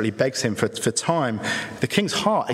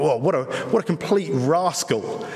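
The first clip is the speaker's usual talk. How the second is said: a mild mock-indignant reader's reaction; indignant aside; slower than usual. Congregation reacting to the servant, in mild mock outrage. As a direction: shake your head lightly at the rascal. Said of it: "we're meant to read that and think".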